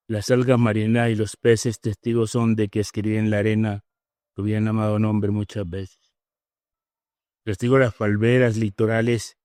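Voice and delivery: romantic poem recital. Acted. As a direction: recite a love declaration tenderly.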